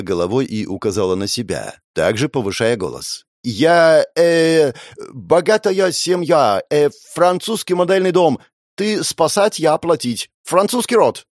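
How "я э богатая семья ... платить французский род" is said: put-on higher girl's voice, halting broken speech; foreign girl. French girl haltingly offers payment for rescue. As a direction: stumble through words as a foreigner.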